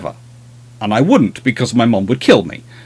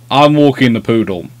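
ordinary delivery

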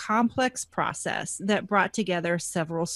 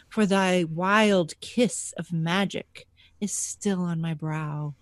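slow, theatrical recital of a love poem; mock-romantic poetry, slow; dramatic poem reading; slower than usual. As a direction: read it like a swooning poet.

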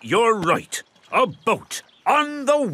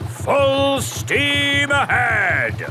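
slow commanding call; 5 semitones higher, much slower than usual. Acted. Captain calls out racing duck.

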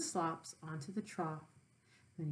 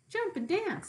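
rooster calling; 11 semitones higher than usual. Acted. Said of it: "said the rooster".

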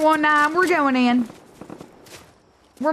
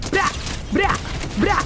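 mock gun noise; 3 semitones higher than usual. Imitated noise while landing.

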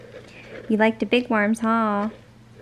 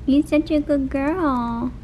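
slow, tender praise for a pet; slow cooing praise; slower than usual. Real, not acted. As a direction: drawl it out lovingly to the animal.

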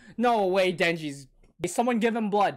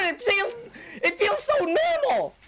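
laughing disbelief; 9 semitones higher than usual. Real, not acted. Laughing at ordinary sword.

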